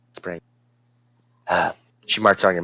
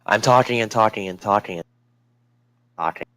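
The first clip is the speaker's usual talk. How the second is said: said louder on request. Shown as a demonstration. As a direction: push the words out louder through the glitch. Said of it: "Say it really loudly".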